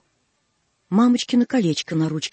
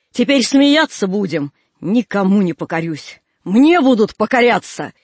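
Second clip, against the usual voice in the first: louder defiant vow; 4 dB louder than usual. Acted. The girl tells her nurse she'll obey nobody, loudly defiant. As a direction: declare she will bow to no one, rising loud. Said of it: "будто не своим голосом".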